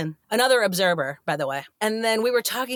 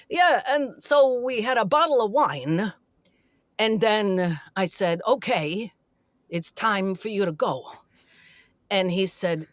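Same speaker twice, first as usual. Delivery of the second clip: lightly imitated deadpan storyteller, long pauses; Chris Walken. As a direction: tell it haltingly, with a hint of his cadence. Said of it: "I do a terrible Chris Walken".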